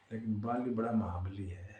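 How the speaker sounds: whispered, breathy warning; hushed warning. Acted. Sugriva warns Ram, hushed.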